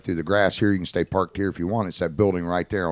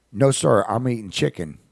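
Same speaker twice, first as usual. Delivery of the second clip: lightly voiced small boy, pitched up at first; hint of a child's higher voice; little kid; 4 semitones higher than usual. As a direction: imitate a boy politely correcting a grown-up. Voices little kid answering him.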